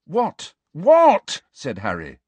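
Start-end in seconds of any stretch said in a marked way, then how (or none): 0.0-0.5 high, sharp questioning what; irritated rising query; impatient. A narrator's reading. Harry's impatient first of two whats. 0.7-1.4 very loud, high what; high-pitched angry yell of disbelief; exasperated shout. A narrator's reading. Harry repeats it, much louder.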